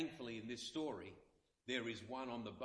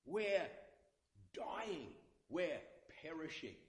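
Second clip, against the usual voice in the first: panicked cry; 4 semitones higher, slower than usual. Acted. Disciples crying to Jesus in the storm, high and panicked. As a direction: gasp it out like men about to sink.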